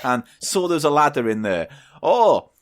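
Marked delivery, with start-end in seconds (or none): 2.0-2.5 high, drawn-out cartoon duck voice; Dinky the Duck. Storyteller voicing a duck finding a ladder, silly high voice. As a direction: groan it high in a silly put-on voice. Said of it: "don't like Dinky's voice".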